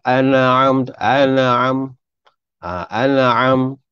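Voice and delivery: an'am stretched and sung for melody; wrong melodic reading. Shown as a demonstration. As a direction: imitate the tune-first mistake. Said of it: "Ah, itu salah". (an'am dipanjangkan ikut lagu, salah)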